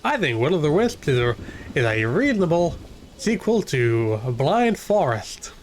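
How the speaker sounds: mild put-on American accent, sliding toward redneck Texas. Streamer playing at being American for viewers, mild American accent. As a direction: lean lightly into an American twang. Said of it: "a mild American accent".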